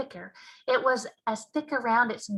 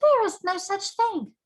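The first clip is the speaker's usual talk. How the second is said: giant voice; 11 semitones higher, 7 dB louder than usual. Acted. BFG voiced loudly in story.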